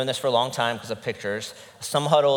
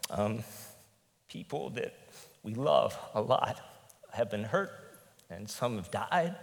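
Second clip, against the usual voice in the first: emotional; 6 dB quieter than usual. Real, not acted. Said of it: "Sorry if I get emotional".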